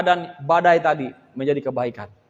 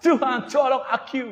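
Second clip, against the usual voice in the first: slow, hammed-up prayer; mock dramatic plea; 5 semitones higher than usual. Shown as a demonstration. Preacher mocking showy prayers, slow and hammed. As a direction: drag it out like a TV drama. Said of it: "bisa ngomongnya gini".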